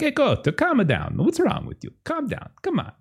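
high, fussy pleading voice; party host begging the goat to stop; flustered host. Acted. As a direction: whine at the goat to calm down.

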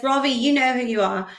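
playful mimicry of how a friend talks; imitating Ravi. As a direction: tease a friend by talking like him. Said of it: "he talks like this".

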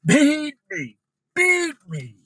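high, loud mock begging; hammed-up begging shout; pleading masochist. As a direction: cry it out as an eager, desperate plea. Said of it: "A masochist says".

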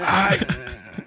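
half-successful retry at a rapper's voice; an impression of a rapper. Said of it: "yeah, it's almost there".

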